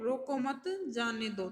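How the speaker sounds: रोको मत grouped together, then जाने दो; slow reading, रोको मत as one phrase before जाने दो; break after मत. Shown as a demonstration. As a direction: say रोको मत slowly, then let जाने दो fall. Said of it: "फिर ये है".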